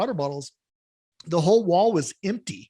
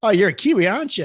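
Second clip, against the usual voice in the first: joking shopkeeper; 4 semitones higher, 5 dB louder, faster than usual. Acted. Acted counter man in a joke.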